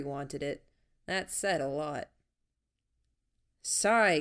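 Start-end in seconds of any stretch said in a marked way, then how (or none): 3.6-4.2 louder call while running. Acted. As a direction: call ahead to her down the street. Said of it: "Gordon called out".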